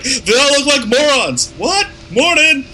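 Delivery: very high, hammed-up film quote; high-pitched mock holler. Co-host quoting a favourite scene, high-pitched mock holler. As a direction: imitate the character in a silly high voice.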